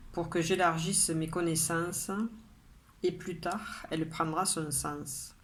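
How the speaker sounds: measured poem reading, pausing after each line; poem recitation. Acted. Poet reads today's poem to her followers, measured recitation. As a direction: recite it line by line, drawing out the line endings.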